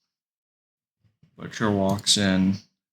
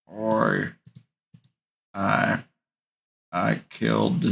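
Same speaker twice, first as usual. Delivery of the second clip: lightly voiced British tough guy; a hint of Butcher's accent, haltingly; Butcher impression; slower than usual. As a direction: try out a rough British line. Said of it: "that's how he says it".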